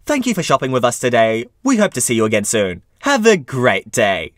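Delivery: lightly sugary shop farewell, last line slowed; sweetly polite goodbye to a rude customer; retail voice. Retold or imitated. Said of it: "in my retail voice said".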